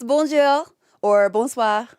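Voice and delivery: Bonjour and bonsoir in a careful French accent; French greeting. Shown as a demonstration. Learner practicing French greetings for chat, careful. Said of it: "I've been learning French".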